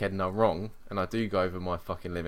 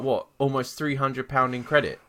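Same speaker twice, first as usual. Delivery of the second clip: incredulous; 3 semitones higher than usual. Retold or imitated. Acting out angry phone complaint.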